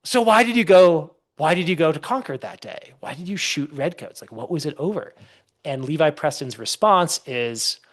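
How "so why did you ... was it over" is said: flustered interviewer. Retold or imitated. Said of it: "the interviewer is sort of flustered".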